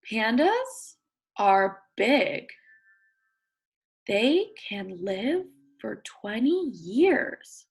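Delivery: slow, clear read-aloud; reading to children. Acted. Teacher reading a picture book to her class. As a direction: read each word out for young listeners.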